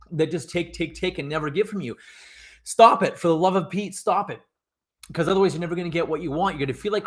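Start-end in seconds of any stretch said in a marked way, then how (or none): 2.6-4.4 emphatic, higher-pitched exasperation, first words punched loud; exasperated plea. Real, not acted. Coach begging listeners to stop being used, exasperated. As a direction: burst out loud, then keep pleading at a raised pitch.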